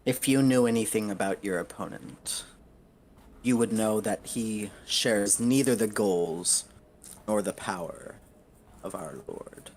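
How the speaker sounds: a hint of lofty rebuke, spaced out in deliberate phrases; lightly voiced devil lord. Devil lord correcting a petitioner about the opponent, lightly voiced disdain.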